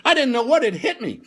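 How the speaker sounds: high, loud comic distress; hammed-up devastation; anguished outburst. Real, not acted. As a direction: wail about the betrayal. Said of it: "I was devastated".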